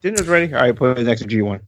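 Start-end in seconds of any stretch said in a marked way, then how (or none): 0.0-0.5 calling out from another room; yelling across the room. Retold or imitated. Imitated call from another room.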